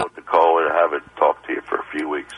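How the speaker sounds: strained, hoarse voice from a chest cold. Real, not acted. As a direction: talk through a sore, congested chest. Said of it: "I'm having a very difficult time talking".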